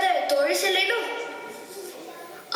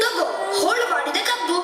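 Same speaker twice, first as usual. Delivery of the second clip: crying. Pretend. Child cries over the cane.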